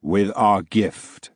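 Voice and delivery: very slow, measured ghostly decree; solemn ghost. Acted. Ghost granting the narrator a gift, slow and solemn. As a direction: lay each word down like a verdict. Same booming ghost continues.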